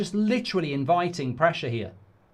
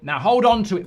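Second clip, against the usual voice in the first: loud call to the players; urgent loud plea to the team; urging shout; 2 semitones higher, 6 dB louder than usual. Real, not acted. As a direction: yell at the screen to keep the ball.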